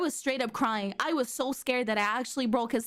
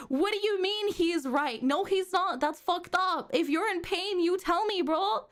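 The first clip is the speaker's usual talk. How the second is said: indignant outburst; 5 semitones higher than usual. Real, not acted.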